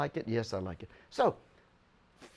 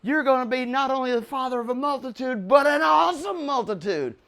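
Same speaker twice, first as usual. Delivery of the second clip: voice of God; 8 semitones higher, 6 dB louder than usual. Retold or imitated.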